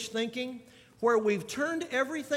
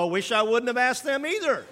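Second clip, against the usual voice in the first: laughing mock regret; 4 semitones higher, 5 dB louder than usual. Mock regret at cheerful answer.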